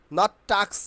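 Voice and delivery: "tax" as "taks" with hard t; mistaken pronunciation. Shown as a demonstration. Teacher showing the habitual error, mistaken pronunciation. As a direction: say "tax" with unaspirated t. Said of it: "আমরা কি উচ্চারণ করি?".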